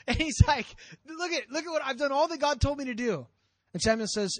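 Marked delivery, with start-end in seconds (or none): 1.1-3.3 higher-pitched, insistent self-justifying; acted indignant excuse-making; defensive protest. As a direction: plead your case, lightly hammed up. Saul acted protesting his innocence.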